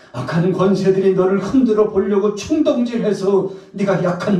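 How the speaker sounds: high, loud, impassioned sermon; full-force preaching. Acted. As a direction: pour out reassurance and commission at full voice. Preaches Jesus' reassurance to Peter. (높은 목소리로 열정적으로 외치는 설교)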